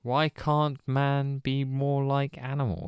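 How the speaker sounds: slow, posh imitation. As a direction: imitate a posh speaker, drawing it out. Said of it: "In a very unusual voice. Posh".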